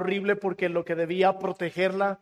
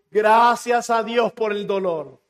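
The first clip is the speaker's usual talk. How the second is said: loud, slow cry of relief, retold; relieved exclamation; 5 dB louder, slower than usual. Doctor thanking God that pain returned, exclaiming with relief. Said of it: "Exclamó con profundo alivio".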